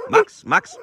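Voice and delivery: high, loud call across the yard; bright, high-pitched call to a dog. Real, not acted. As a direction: call the dog's name up high. Calling the dog over.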